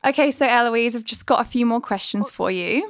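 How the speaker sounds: put-on Aussie accent; Australian accent. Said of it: "I'll be Aussie".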